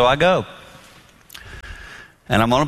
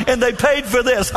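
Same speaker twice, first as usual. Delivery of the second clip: mock landfill guys; 11 semitones higher than usual. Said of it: "those guys are laughing their heads off going".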